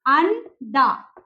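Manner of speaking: अंडा said slowly and drawn out, low; drawn-out word. Shown as a demonstration. Teacher sounding out अंडा for the class, slowly. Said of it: "spelling हो जाएगी एएनडीए".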